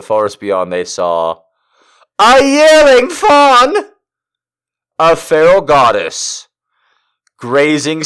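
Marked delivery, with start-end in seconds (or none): 2.2-6.5 dramatic. Acted. Hammy dramatic reading.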